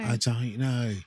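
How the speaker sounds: put-on uncertain stab at a Liverpool-band-like accent; vague put-on accent. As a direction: ramble on in a half-baked Liverpool accent. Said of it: "what that accent is I'm doing".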